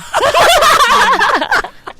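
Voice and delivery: high, loud cackling laugh; real burst of high laughter. Real, not acted. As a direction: crack up loudly, high-pitched. Host cracks up at being praised.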